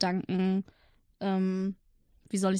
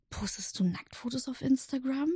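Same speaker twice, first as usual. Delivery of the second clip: hushed; 3 semitones higher, 7 dB quieter than usual. Retold or imitated. Aunt's shocked question, hushed.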